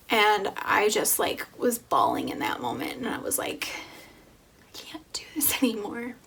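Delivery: fighting back tears, whispering; getting emotional. Real, not acted. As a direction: voice breaking with tears. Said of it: "Sorry, I'm getting emotional".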